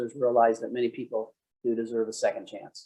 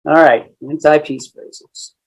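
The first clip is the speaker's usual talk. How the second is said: loud, slow section title; announcing; 10 dB louder, slower than usual. Real, not acted. Instructor announcing a new topic, loud and slow. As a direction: announce it to the class. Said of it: "announces a segment".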